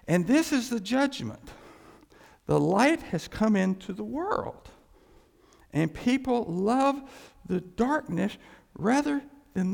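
slow, solemn reading of the verse; scripture reading. Acted. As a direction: read it with weight. Reads Jesus' words.

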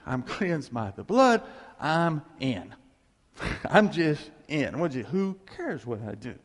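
hammed-up, unhurried certainty; mock complacency. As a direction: play the smugly secure believer, drawing it out. Acts out a complacent believer's thinking.

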